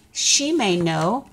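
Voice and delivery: slow, drowsy lion voice; sleepy yawning lion. Acted. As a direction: say it through a lazy yawn. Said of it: "says Lion with a yawn".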